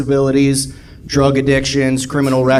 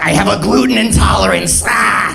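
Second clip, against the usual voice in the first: higher monstrous roar, ending in a howl; hammed-up beastly outburst; mock werewolf customer; 5 semitones higher than usual. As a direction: roar it like a complainer mid-transformation. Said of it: "Starts growing claws".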